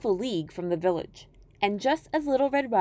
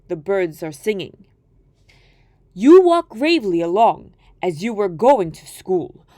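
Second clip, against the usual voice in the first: coaxing wolf; 2 semitones lower, 6 dB louder than usual. Acted. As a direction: lure the child off the path. Wolf coaxes girl.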